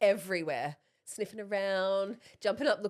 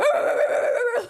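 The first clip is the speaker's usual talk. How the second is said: high, loud doggy howl; mock barking howl, full volume; imitated dog howl; 13 semitones higher, 10 dB louder than usual. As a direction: do the dog going off. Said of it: "the dog starts barking".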